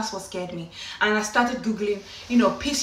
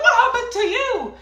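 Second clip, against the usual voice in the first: laughing scream; 13 semitones higher, 5 dB louder than usual. Retold or imitated. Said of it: "we screamed".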